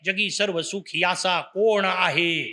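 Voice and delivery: slow question weighted on "कोण"; verse as question. Shown as a demonstration. Preacher explains Samarth's first question, questioning. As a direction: ask it slowly, lingering on कोण. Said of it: "पहिला प्रश्न आहे".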